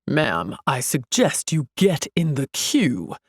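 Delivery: low, stern "Ma'am" from a guard; officious security guard. A narrator's reading. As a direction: order her firmly but formally. Guard orders her to queue.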